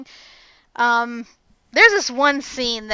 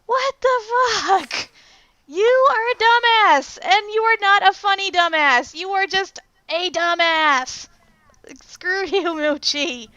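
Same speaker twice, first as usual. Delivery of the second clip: high, loud, emphatic scolding; exasperated tirade; 6 semitones higher, 4 dB louder than usual. Retold or imitated. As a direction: tell off an idiot, pitched way up. Acted tirade at the film character.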